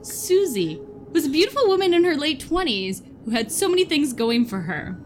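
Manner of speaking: spooky story narration. Acted. Reads a scary story to friends.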